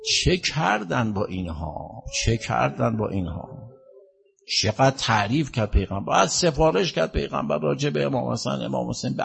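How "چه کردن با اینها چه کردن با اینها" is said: softly grieving rhetorical question; soft lament. Real, not acted. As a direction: ask it sorrowfully, drawing out the words. Preacher laments the Prophet's family's treatment.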